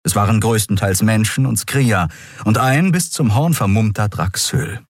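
usual speaking voice

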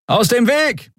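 high call to clear the way. Acted. Medic clearing the corridor, calling out high. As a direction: shout them aside. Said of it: "rief jemand in der Nähe".

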